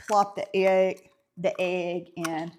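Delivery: light Southern drawl on "egg"; slight Southern accent. Real, not acted. Baker catching the Southern accent slipping out, Southern accent. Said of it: "That is my Southern accent that slips out".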